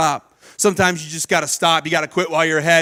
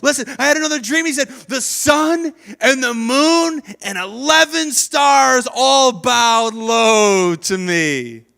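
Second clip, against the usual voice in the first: grand proclamation; 4 semitones higher, 3 dB louder, slower than usual. Retold or imitated. Joseph proclaiming.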